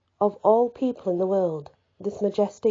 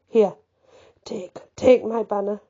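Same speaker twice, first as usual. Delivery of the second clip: real catch of feeling while reading; getting emotional mid-sentence; choked up with emotion; 3 dB louder than usual. Real, not acted. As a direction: falter slightly, moved by the words. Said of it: "guys, I'm getting emotional".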